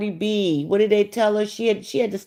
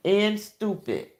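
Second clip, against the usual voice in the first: a softer, dry echo of the insult; deadpan quiet repeat; 5 dB quieter than usual. Real, not acted. Repeating the insult about her fans, softer. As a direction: drop the volume and let it sink in.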